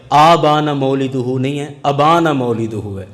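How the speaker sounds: not آبانا with a long a, but ابانا with a short a; slow, careful ابانا مولدہ; correcting pronunciation. Retold or imitated. Showing the error in the book, careful pronunciation. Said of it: "آپ نے اس الف پر کھڑی زبر پڑھی تھی".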